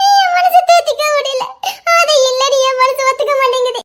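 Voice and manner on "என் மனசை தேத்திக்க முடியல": crying. Acted. Wife sobbing, can't accept it.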